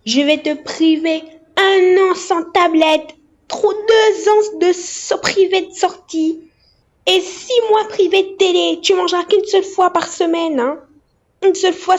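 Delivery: mother laying out punishments to her daughter. Real, not acted. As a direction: lay down the law word by word.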